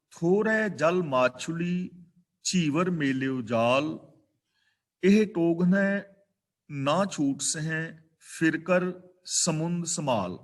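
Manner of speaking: slow, measured verse reading; scripture recitation. Real, not acted. Preacher reads Kabir's verse to the congregation, slow recitation. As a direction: recite each phrase deliberately with pauses between.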